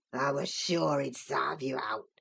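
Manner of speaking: put-on old servant's gloating whisper. Joseph gloats to Cathy from the fire, low whisper. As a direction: whisper your malice with relish. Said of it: "malignant, crackly laugh".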